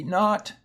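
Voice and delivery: LAY-dee said slow and long, then short LAD-ee; lady versus laddie. Shown as a demonstration. Teacher contrasting lady and laddie for spelling class, slow and clear. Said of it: "it divides here".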